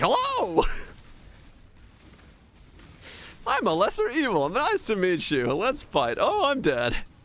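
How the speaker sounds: very high sing-song voice with swooping, swinging pitch. Mocking the Diablo 4 version of a boss: Duriel voice. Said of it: "He's like".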